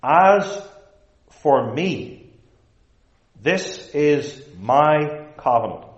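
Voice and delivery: solemn emphatic quote of God. Retold or imitated. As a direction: stress each phrase, with long pauses. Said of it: "God is emphatic on this point".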